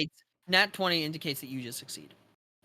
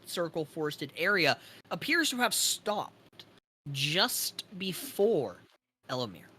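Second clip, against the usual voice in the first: slow, deliberate, ominous scene-setting; game master narration; slower than usual. Acted. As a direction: let each phrase hang before the next.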